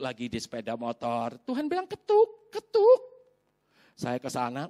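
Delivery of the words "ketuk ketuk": high, loud, insistent command; God's urging. Retold or imitated. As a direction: urge him on with a raised-pitch order. God ordering him to knock.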